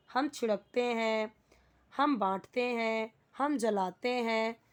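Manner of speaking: slow, with ते हैं drawn out at each ending; stress on ते हैं. Shown as a demonstration. Teacher drills Hindi tense endings, stretching ते हैं slowly. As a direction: lean slowly on the ending ते हैं in every verb. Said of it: "हम इसे ते हैं में बोल रहे हैं".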